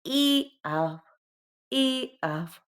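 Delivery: "I af" said high and clear as a demo; "I af" lifted up, teacher showing the word; example word. Shown as a demonstration. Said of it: "per esempio".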